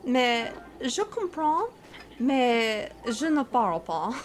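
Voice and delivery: French with an American accent; slow, careful non-native French; English accent in French. Shown as a demonstration. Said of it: "mon français n'est pas bon".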